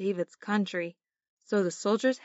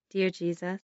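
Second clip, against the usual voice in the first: sweet patient sunday school. Shown as a demonstration. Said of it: "repeat after me".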